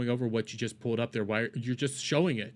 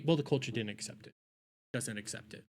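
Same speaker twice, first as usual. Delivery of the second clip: mocking imitation; 7 dB quieter than usual. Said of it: "You did this whole thing just to say".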